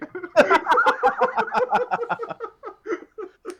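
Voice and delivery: long, high, loud cackle; loud laugh. Real, not acted. Player tickled at hiding in the back, long high laughing fit. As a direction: burst out in a big high laugh.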